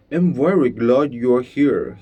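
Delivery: talking through a mouthful of food; mouth full. Acted. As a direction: say it while chewing, mouth full. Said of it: "speaking with his mouth full".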